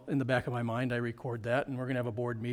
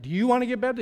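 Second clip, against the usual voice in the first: higher and louder, spelling the question out; 9 semitones higher, 7 dB louder, faster than usual. Retold or imitated. Pastor repeats the question to Muller, higher and louder. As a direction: say it again big so a French speaker gets it. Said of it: "So I was like".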